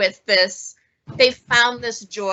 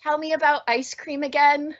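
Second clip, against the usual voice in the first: lightly voiced sad cat, higher; a hint of a wistful, pitched-up cat; poor sad cat; 5 semitones higher than usual. Presenter reads out the cat's line from the book, lightly sad. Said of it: "the poor sad cat says".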